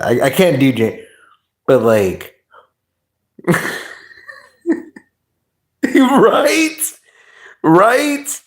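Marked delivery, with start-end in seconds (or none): 5.8-8.4 very high, squeaky burst of agreement; excited squeal. Real, not acted. Laughing with chat over the likeness, high excited squeal. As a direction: shoot the pitch way up, excited.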